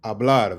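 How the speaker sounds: Hablar said ah-BLAR, tapped R; silent H. Shown as a demonstration. Teacher introducing the word, "Hablar" with silent H. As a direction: open "Hablar" on the A. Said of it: "H is silent".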